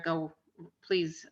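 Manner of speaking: ordinary delivery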